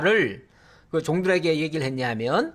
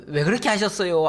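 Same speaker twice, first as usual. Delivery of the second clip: timid questioning. Shown as a demonstration. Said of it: "대놓고 책망은 못하겠고".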